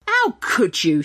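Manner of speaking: mild read-aloud yell; scolding a goblin nose to nose. Acted. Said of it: "she yelled".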